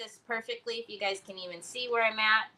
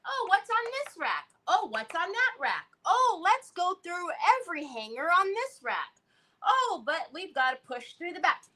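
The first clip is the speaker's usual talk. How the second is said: higher, eager mock browsing voice; mimicking Trevor; 7 semitones higher than usual. Mom mocking son Trevor dragging through racks, eager higher voice. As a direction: ham up a fussy shopper checking every rack. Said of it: "That's how Trevor is".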